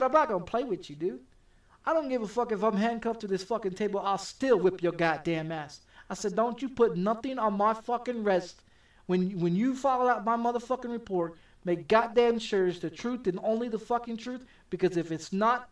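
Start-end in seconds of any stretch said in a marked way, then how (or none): 0.0-5.8 retold angry threat. Handcuffed man warning the rookie cop, raised angry threat. 6.3-15.7 retold angry warning. Man telling the cop not to lie, raised angry warning. Warning the officer about the report.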